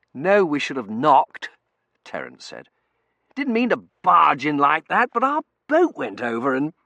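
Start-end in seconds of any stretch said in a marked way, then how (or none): 0.1-1.5 put-on young man voice. Terence character voice. 3.3-6.7 put-on young man voice. Terence character voice.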